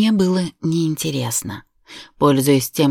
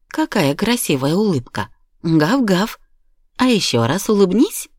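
a lightly raised, cheerful puppy voice; playful toy dog; 4 semitones higher than usual. Pretend. Mother voicing a toy dog to cheer her daughter, playful. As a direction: coax a smile as the toy dog.

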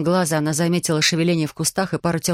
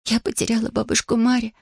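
half-whispered grief; 5 semitones higher than usual. Acted. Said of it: "прошептала она".

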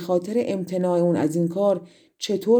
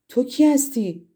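higher, startled call of who are you; surprised cry; 5 semitones higher, 3 dB louder than usual. A narrator's reading. Princess startled by a bird at her window, surprised cry. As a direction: cry out in alarm at a stranger. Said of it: "با تعجب داد زد".

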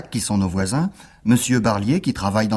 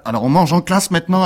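higher, indignant cry; shouting principal; 7 semitones higher, 3 dB louder than usual. Acted. Principal catching Alceste eating in class, shouting. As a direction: burst out scandalized. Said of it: "a crié le directeur".

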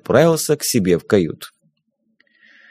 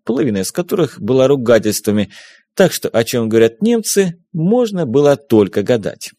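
usual speaking voice

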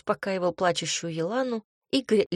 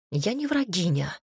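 huffy snort. A narrator's reading. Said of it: "фыркнула она".

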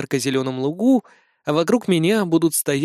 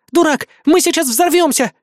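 high, loud panicked cry; exclaiming; 11 semitones higher, 4 dB louder than usual. Acted. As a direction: yell it out in alarm. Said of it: "воскликнула помощница". (испуганный высокий вскрик)

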